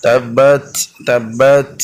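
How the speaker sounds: তাব্বাত with a puff of air after the final ত; thin breath release. Shown as a demonstration. Teacher demonstrating the hams release on a word. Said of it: "পাতলা বাতাস বের হবে".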